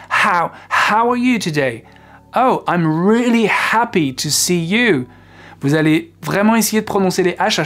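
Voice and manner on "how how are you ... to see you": slow English with every H clearly breathed; clear H sounds. Shown as a demonstration. Teacher modelling pronounced English H sounds. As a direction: breathe out each H in "how" and "happy". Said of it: "Par exemple".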